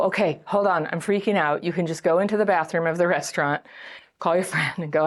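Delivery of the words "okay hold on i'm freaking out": composed, matter-of-fact admission of panic; measured self-check. Acted. Dater with tools noticing the panic, measured self-check. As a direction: calmly catch yourself and report it. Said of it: "you go slowly, you can go".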